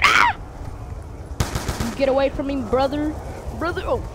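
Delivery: high panicked yell; yelling while running away. Real, not acted. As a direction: scream them off while fleeing. Zombies chasing the player.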